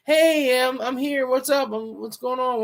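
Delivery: high-pitched imitation of an eager newcomer; mock eager greeting. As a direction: mimic someone bursting in wanting attention. Mimics attention seeker entering room.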